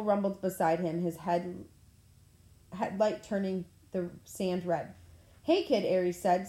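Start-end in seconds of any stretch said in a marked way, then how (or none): 5.4-5.9 put-on higher, pleased hey kid; pleased greeting. A narrator's reading. Ares greeting the kid on the beach, pleased and higher. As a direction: greet him like an old pal. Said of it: "seeming genuinely pleased".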